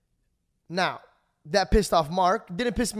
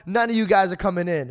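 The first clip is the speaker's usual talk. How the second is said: heated, louder threat; angry bouncer; 3 semitones higher, 3 dB louder than usual. Retold or imitated. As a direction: snap at them, fed up. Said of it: "And then he goes".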